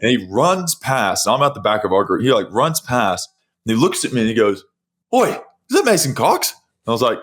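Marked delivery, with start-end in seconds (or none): 5.1-6.5 high-pitched surprised call; mock shout of sudden recognition; imitated calling out. Runner spotting a famous face in the crowd, surprised call.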